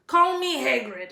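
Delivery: lightly voiced booming giant, friendly; a big friendly giant asking for tea; gruff giant. A narrator's reading. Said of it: "he said".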